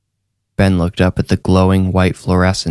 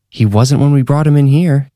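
hissed; 7 semitones higher than usual. A narrator's reading. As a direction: spit the words at the doctor. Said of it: "Kathy hissed".

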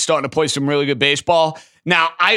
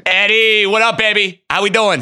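excited greeting; 5 semitones higher, 4 dB louder than usual. Real, not acted. Host greets caller with enthusiasm.

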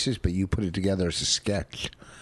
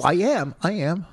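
high, loud boastful agreement; proud excited; 9 semitones higher, 5 dB louder than usual. Real, not acted. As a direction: brag it with delight. Proud claim of salesmanship.

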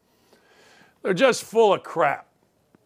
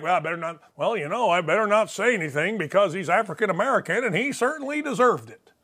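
mock timid white guy, lower and softer; 3 semitones lower, 4 dB quieter than usual. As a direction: mumble it like a nervous guy scared to speak up. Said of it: "White people are like".

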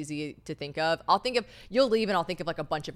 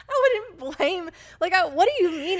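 baffled question; 11 semitones higher, 5 dB louder than usual. Retold or imitated. Voicing confused James.

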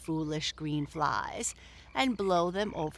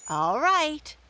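high, louder eager yes; 10 semitones higher, 6 dB louder than usual. Acted. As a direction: hop up agreeing. Peter agreeing.

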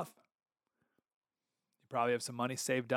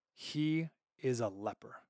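slow solemn verdict; 3 semitones lower, 4 dB quieter, slower than usual. Shown as a demonstration. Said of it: "final thing said about Uzziah".

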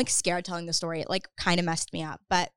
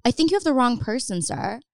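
politely turning someone away, slightly raised pitch; really polite; 4 semitones higher than usual. Retold or imitated. Teenager retelling how she corrected the stalker, trying to be polite. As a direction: let him down courteously. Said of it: "just trying to be really polite".

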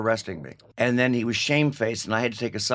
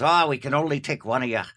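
put-on Irish accent; 3 semitones higher than usual. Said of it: "That's my English, Irish accent".

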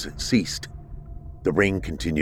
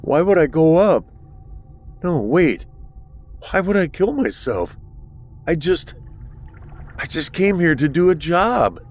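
higher, agitated pleading; panicked protest; 9 semitones higher than usual. A narrator's reading. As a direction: argue in rising panic.

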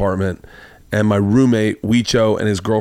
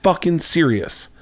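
higher, slow mock-angry quote; retold anger; 5 semitones higher than usual. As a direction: imitate her indignation, stretching the words out. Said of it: "she immediately gets angry".

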